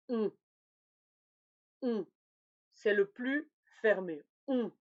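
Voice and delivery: On with rounded lips, air through the nose; nasal o. Shown as a demonstration. Teacher demonstrating the closed nasal o. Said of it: "Je forme un O avec ma bouche".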